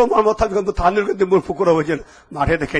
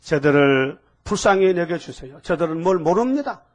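Jesus's gentle plea. Retold or imitated. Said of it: "뭐라고 했어요?".

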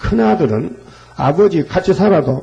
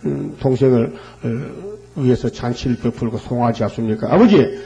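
voiced grievance rising into accusation; indignant complaining. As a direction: take Dad to task, mildly at first, then sharply. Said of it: "이렇게 따지는 겁니다".

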